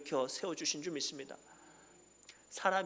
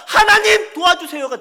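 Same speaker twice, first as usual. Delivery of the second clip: high, loud, tearful plea; preacher weeping through the prayer; crying prayer; 19 dB louder than usual. Acted. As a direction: cry out to God for help. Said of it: "할 수 있으면 도와주세요가 아니라".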